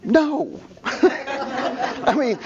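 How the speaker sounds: laughing. Real, not acted. Laughing at Miata joke.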